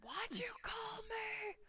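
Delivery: high, slow, breathy question; squeaky puzzled voice. Acted. Player asking Durnan why he called them that, squeaky. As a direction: ask it in a thin, high whisper.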